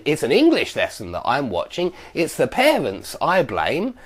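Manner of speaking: "English lesson" and "parents" emphasised, rising at the end; stress on cleft focus. Shown as a demonstration. Teacher showing what it-clefts highlight, stressing "English lesson" and "parents". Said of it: "to put emphasis on".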